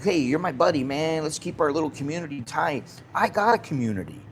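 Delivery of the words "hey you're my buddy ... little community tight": higher, mocking matey voice; mocking buddy talk. Mocking expats who want a tight little community, in a higher matey voice. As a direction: send up the clingy expat buddy.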